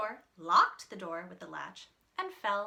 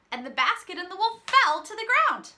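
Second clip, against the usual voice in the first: dramatic fall; 10 semitones higher, 13 dB louder, faster than usual. A narrator's reading. Wolf falls, dramatic narration.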